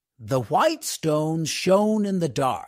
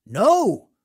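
higher, louder defiant no; crying out; 5 semitones higher, 7 dB louder than usual. A narrator's reading. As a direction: shout him down. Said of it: "cried Hans".

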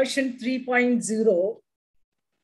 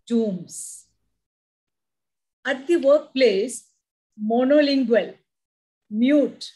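poem recitation. Acted. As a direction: savour each line of the poem. Poem reading.

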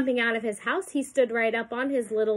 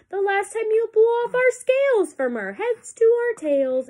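high, animated fish voice; pleading fish; 10 semitones higher than usual. A narrator's reading. Fish reminds the elephant of the last sneeze, pleading. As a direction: plead in a raised storybook voice.

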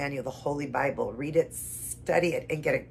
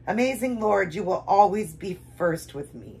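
devotional prayer; 4 semitones higher, 3 dB louder than usual. Real, not acted. Reader promises Lord first place, heartfelt prayer. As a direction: pray it with earnest praise.

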